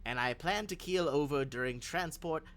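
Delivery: put-on old lady, dry and defiant; stern old woman. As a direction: threaten them with spite, then offer tea. Elderly NPC warns the party.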